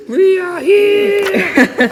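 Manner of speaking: high, slow, stretched-out shout. Pretend. Listener echoes the Whos' cry in a high shout. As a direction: yell it out like a tiny Who crying out.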